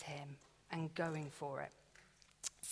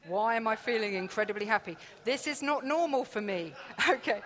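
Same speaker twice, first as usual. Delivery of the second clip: giggling through the words; laughing at her own surprise at being happy; 4 semitones higher, 9 dB louder than usual. Real, not acted. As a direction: let the laugh break the line.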